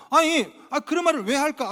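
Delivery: ordinary talk, nothing marked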